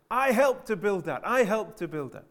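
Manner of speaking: put-on proud child calling out in a crowd. A narrator's reading. Little girl in the crowd calls out proudly. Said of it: "called out".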